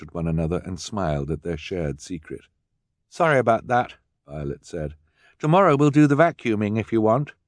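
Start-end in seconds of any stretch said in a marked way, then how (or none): 3.1-7.3 put-on higher apologetic girl; young girl Violet. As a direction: apologize brightly.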